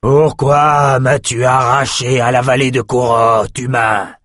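dragon ancien qui tonne; voix tonitruante de dragon. Acted. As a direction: gronde comme une tempête. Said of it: "Sa voix tonitruante évoqua le fracas d'une tempête". (voix de dragon tonitruante)

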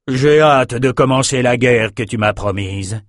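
eager brutish king voice; eager raider king. Acted. Raider king eager for war, brutish. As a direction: relish the coming war.

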